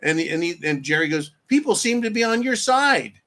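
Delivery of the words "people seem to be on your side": mild facetious tone. Retold or imitated. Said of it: "that's called being facetious".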